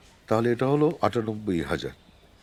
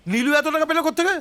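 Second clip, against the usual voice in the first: high, fast incredulous outburst; astonished; 4 dB louder, faster than usual. Acted. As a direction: blurt it out in disbelief, pitch leaping. Astonished at where the money came from.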